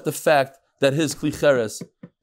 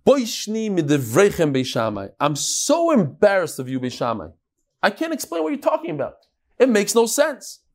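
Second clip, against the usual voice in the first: mock disrespectful rebuke. Student rebukes Beis Shammai's school, mildly disrespectful. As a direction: quote a rude, embarrassed objection to the elders. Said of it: "This lack of derech eretz, to talk like that".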